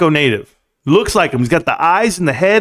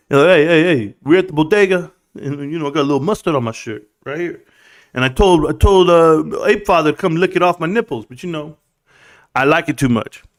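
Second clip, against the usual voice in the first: put-on New York accent. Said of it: "I don't know how to do New York accents".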